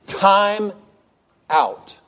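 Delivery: loud, high first word, then a pause; righteous indignant yell. Retold or imitated. R C Sproul before a room of conference attendees, indignant yell. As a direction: yell it in two separate bursts of indignation. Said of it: "a righteous indignation, yells".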